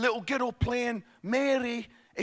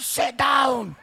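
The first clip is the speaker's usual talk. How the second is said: curt order; 6 dB louder than usual. Retold or imitated. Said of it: "And the midwife".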